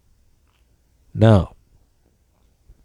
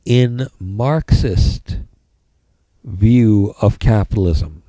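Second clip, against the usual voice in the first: dictating. Shown as a demonstration. Dictating notes to the class.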